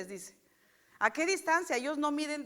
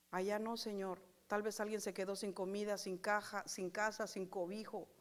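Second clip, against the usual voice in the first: softer, fading compassionate plea; hushed prayer; 3 semitones lower, 6 dB quieter than usual. Acted. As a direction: let it sink to almost nothing. Oración compasiva. (oración compasiva, cada vez más suave)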